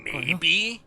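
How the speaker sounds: slow, hushed ad narrator voice; Burger King foot lettuce voice. Pretend. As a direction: read it like the creepy foot lettuce ad. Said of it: "do the Burger King foot lettuce voice for this".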